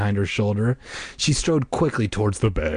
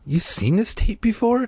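mock shriek; 13 semitones higher than usual. A narrator's reading. Diane asks Casey about the tape, mock shrieking. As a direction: shriek it lightly, in disbelief. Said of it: "Diane shrieked".

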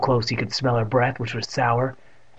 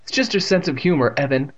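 a touch hesitant, raised pitch; uncertain; 3 semitones higher than usual. A narrator's reading. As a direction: reassure him without conviction. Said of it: "Miss Ross said uncertainly".

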